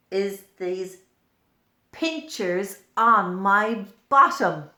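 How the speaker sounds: an earwig revealing its odd pinchers; earwig character. Acted. Earwig speaks in the book.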